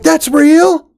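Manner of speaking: hammed-up panicked disbelief; imitating Neo freaking out. Imitating Neo discovering the bug, a high panicked squeak. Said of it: "And he's like".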